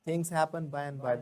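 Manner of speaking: slow, drawn-out model sentence; slow demonstration. Shown as a demonstration. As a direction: stretch it out for learners to copy. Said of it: "क्योंकि चीजें होती हैं धीरे धीरे".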